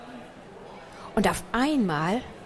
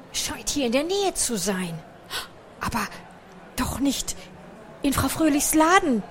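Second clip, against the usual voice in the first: mildly alarmed, rising at the end; dawning fright, halting before the last words; startled cry; 4 semitones higher than usual. A narrator's reading. Gruyère fears for the shop below which they live, startled. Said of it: "rief Gruyère erschrocken".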